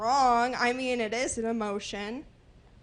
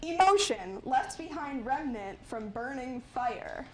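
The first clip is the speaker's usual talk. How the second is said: reading aloud haltingly; 5 dB quieter than usual. Real, not acted. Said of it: "You can tell by the bad handwriting".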